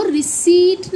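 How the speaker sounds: रिसीट as ri-SEET with no p; emphatic ri-SEET for रिसीट; silent p. Shown as a demonstration. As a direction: model रिसीट, stressing the long ee. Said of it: "इसका प silent होता है".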